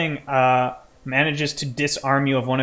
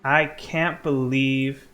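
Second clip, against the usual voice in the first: game master narration. Acted. Game master telling player of a hated enemy, dramatic narration. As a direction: let each phrase of the hatred land.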